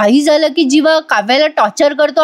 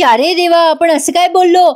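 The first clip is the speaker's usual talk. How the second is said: startled realization; 5 semitones higher than usual. Retold or imitated. Wife shocked at what she just admitted, higher. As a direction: gasp at your own words.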